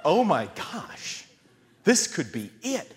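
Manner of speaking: slow, drawn-out mock dread; acted stunned alarm; dawning dread. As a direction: stretch it out as realization sinks in. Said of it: "we're like".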